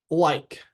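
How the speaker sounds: "like" alone, closing on K; present-tense word demo. Shown as a demonstration. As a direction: model "like" as an isolated word. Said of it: "say it in the present tense".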